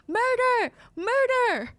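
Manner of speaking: high, loud retold scream, drawn out. Cook screaming as he swims round the boat. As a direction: scream it out in alarm. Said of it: "swimming around the boat screaming".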